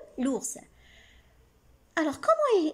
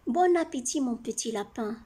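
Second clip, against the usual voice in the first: mocking. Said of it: "Il se moque de lui".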